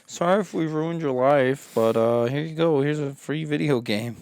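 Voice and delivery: lightly hammed-up apologetic company; a hint of a sheepish publisher; mock corporate voice.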